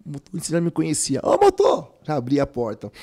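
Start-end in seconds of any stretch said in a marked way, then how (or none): 1.2-1.9 high shout to the driver; calling out. Retold or imitated. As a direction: call out to the bus driver.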